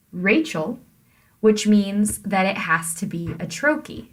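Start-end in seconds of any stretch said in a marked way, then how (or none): 0.1-0.8 "Rachel" with stressed RAY, weak chel; stress on first syllable. Shown as a demonstration. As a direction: lean on the start of "Rachel". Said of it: "put the stress on the first syllable".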